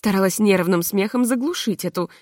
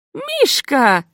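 loud, high call of a name; shout; 6 semitones higher, 4 dB louder than usual. A narrator's reading. American poet shouts to the footman. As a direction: cry out the name in delight. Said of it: "закричала американка".

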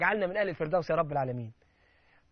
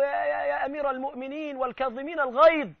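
stammering, higher pleading plea; mock terrified servant; 8 semitones higher, 5 dB louder than usual. Servant begging Caliph Muawiya for mercy, frightened. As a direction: stutter like he fears for his life. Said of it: "بص للخادم كده هيموت".

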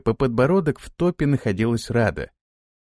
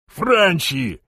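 yell; 6 semitones higher than usual. Acted. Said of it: "завопил он".

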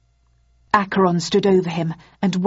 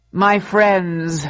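booming ideological slogans; 4 dB louder than usual. Acted. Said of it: "He paused for dramatic effect".

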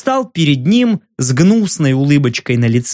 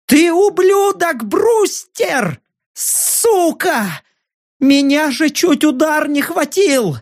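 much higher, screaming abuse; furious yell; 11 semitones higher, slower than usual. Acted. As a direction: scream at him, shaking with fury. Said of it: "завопил".

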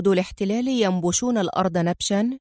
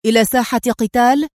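disapproving; 3 semitones higher, 4 dB louder than usual. Acted. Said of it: "مستنكرًا".

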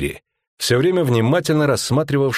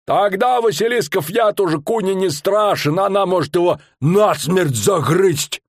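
a pitched-up showman bellowing his tale; fairground barker; 11 semitones higher than usual. Acted. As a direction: sell the monster to the crowd. Showman barker voiced in story.

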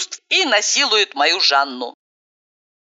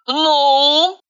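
angry demand, louder and higher; 7 semitones higher, 3 dB louder than usual. A narrator's reading. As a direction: snap it out angrily. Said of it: "гневно повторила я".

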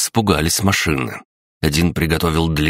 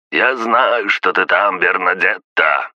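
shouting; 4 semitones higher, slower than usual. Acted. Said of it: "закричал".

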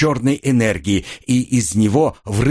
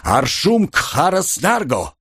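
cried-out incantation; 6 semitones higher, slower than usual. A narrator's reading. Kir calls out a spell in battle, mildly exclaimed incantation. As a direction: call out the incantation, drawing it out high. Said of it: "выкрикнул Кир".

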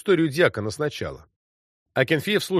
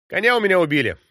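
loud, higher announcement; said loudly; 6 semitones higher, 4 dB louder, faster than usual. A narrator's reading. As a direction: call it out to whoever's on the cart. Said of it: "сказал я громко". (громко, на всю округу)

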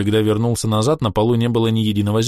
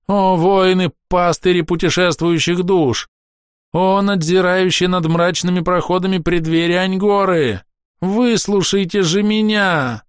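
wailing shout; 10 semitones higher, slower than usual. A narrator's reading. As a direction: howl to the warriors to listen. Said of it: "вопил растерявший всю свою аристократичность эльф".

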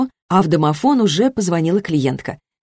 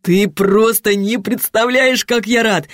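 elated; 4 semitones higher, slower than usual. Acted. Petya elated about baby.

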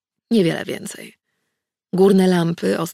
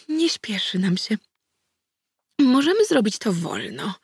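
cautious; 3 semitones higher than usual. A narrator's reading. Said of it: "Danuta odezwała się ostrożnie".

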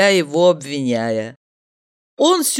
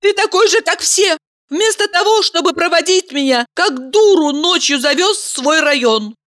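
high furious woman's voice; woman blowing up, voice raised high; angry woman; 12 semitones higher than usual. Acted. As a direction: Valeria snapping at Mikhail. Valeria's angry outburst.

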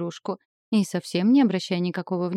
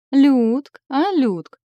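higher, giggly teasing call; giggling; 7 semitones higher, 8 dB louder, much slower than usual. A narrator's reading. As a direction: tease her with a giggle. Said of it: "хихикнула в своей манере Машка". (хихикая, дразнясь)

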